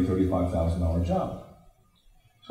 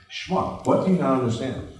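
exasperated retort; 5 semitones higher than usual. Retold or imitated. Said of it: "I felt like saying".

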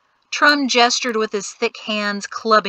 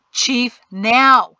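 urgent order; 3 semitones higher, 7 dB louder than usual. Acted.

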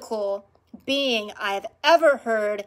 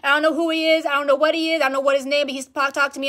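higher, agitated rush of not knowing; retold freaking out; 4 semitones higher, faster than usual. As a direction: replay your freak-out to your partner. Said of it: "I was, like, freaking out".

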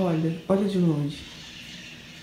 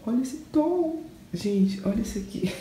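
delighted squeal; 7 semitones higher than usual. Real, not acted. Showing the paint to the camera.

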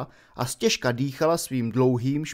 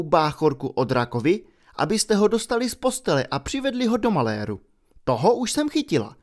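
scolding professor; 2 semitones higher than usual. Acted. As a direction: lay out their prank with icy contempt. McGonagall scolding.

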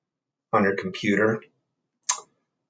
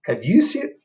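high, slow, plaintive bear; 10 semitones higher, 7 dB louder than usual. Acted. Bear asking the animals for his hat, high and slow. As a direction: ask like a lost, patient bear.

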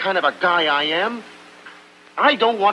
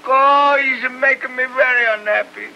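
lament; 4 semitones higher than usual. Acted. Tony laments Buck to Lena, an Italian-accented lament. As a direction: pour out your hurt in an Italian accent.

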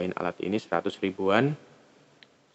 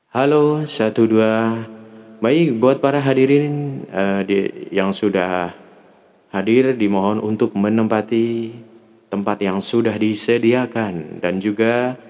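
louder formal emcee announcement; 2 semitones higher, 4 dB louder than usual. Shown as a demonstration. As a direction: address the guests like an event host. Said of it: "untuk M C, bedanya ini seperti ini".

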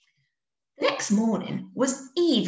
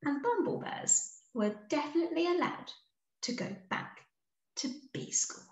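softening ending; 8 semitones higher, 7 dB quieter than usual. A narrator's reading. Story's gentle closing lines.

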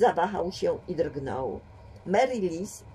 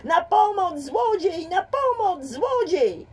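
high, loud cries for help; yelling for help; 12 semitones higher, 5 dB louder, slower than usual. A narrator's reading. James screams for help near the police station, loud yelling. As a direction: scream it as loud as you can. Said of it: "zaczął wrzeszczeć najgłośniej".

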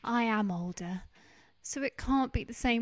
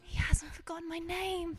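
touched whisper; 4 semitones higher than usual. Acted. Wife touched.

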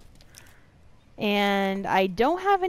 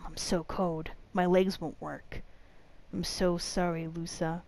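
dying man's letter. Acted. Reads dying man's note.

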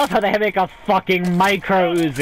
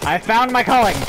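higher, excited exclamation; 5 semitones higher than usual. Real, not acted. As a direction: announce it excitedly, pitch lifted. Catchphrase repeated with more force.

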